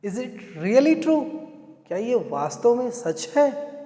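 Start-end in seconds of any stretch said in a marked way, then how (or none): 0.1-1.2 very slow, words spaced apart; teacher modelling the question at dictation pace; slow model question. Shown as a demonstration. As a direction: ask it slowly for learners. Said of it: "इस तरह से आपने पूछा".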